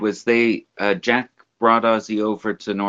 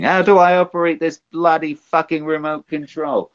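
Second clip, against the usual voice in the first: mock yell for help, pitched up; imitated helpless rocker, high voice; 6 semitones higher than usual. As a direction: call out in a put-on exasperated rocker voice. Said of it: "just start screaming for his wife".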